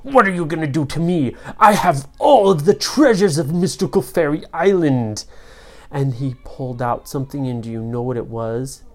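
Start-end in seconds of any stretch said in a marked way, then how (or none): 0.0-5.2 taunting villain boast; lightly voiced storybook villain; evil sorcerer, scornful. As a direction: sneer at the powerless heroes.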